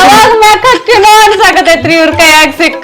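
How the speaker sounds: hammed-up sobbing complaint; crying. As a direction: wail until it breaks into sobs. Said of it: "ಅಳಬೇಡ, ಅಳಬೇಡ".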